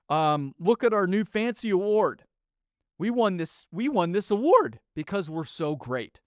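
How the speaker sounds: high, smug, hammed-up company voice; mock corporate boast. Podcaster parodying companies bragging about safety, smug and high. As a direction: parody a self-praising safety manager. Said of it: "if they're talking safety".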